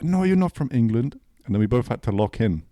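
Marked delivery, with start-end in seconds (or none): 0.0-1.2 put-on loud, high Italian-accented disbelief; raised-pitch mock Italian protest; Italian bartender. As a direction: imitate a disbelieving Italian barman. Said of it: "And he's like".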